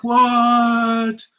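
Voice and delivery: high, loud stunned "What?"; shocked what. Retold or imitated. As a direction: blurt it out in disbelief. Seeing the huge line.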